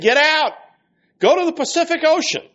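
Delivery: high, loud, fast banishing shout; shouted command. Acted. Healer banishing the demon from the woman, shouting.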